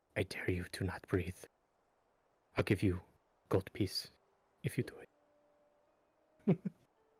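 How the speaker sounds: hushed whisper close to the ear. In the game, a character leans to a companion's ear: whispering in someone's ear. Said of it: "he just whispers in Araya's ear".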